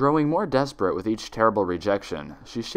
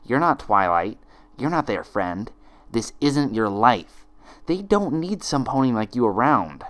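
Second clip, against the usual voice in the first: a hint of a harsh double; lightly voiced stern twin; 3 semitones higher than usual. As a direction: condemn her coldly. Twin accusing Twilight.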